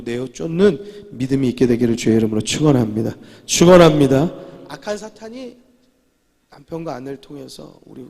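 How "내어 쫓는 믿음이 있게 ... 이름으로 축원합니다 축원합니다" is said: loud, rising preacher's blessing, the repeat louder still; full-force sermon climax; preaching shout. Real, not acted. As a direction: proclaim the blessing to the crowd.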